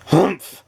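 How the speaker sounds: short cross humph; grumpy grunt. Acted. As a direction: grunt it grudgingly. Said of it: "grunted Mister Grumpy".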